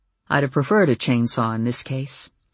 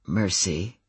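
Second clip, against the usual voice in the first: purring; 6 semitones lower, 4 dB quieter than usual. A narrator's reading. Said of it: "Adam purred".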